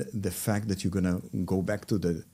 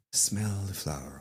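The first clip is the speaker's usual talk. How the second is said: calming cue; 5 dB quieter than usual. Shown as a demonstration. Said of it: "And we say".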